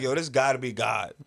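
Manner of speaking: loud retold amazement; amazed. Man reliving seeing that building, amazed. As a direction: exclaim it like witnessing a miracle.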